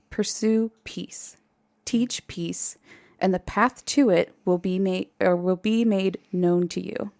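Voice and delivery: a hint of solemn prophecy; solemn spirit guide. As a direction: hand down the message softly and evenly. Voices solemn otherworldly guide's message.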